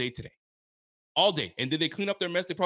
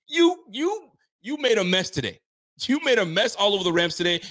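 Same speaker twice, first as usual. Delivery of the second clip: mock scolding; 8 semitones higher, 5 dB louder than usual.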